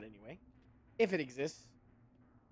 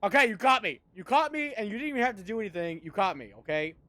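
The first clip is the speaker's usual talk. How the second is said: mock confession; 3 semitones higher, 6 dB louder than usual. Admitting sarcasm, hammed up.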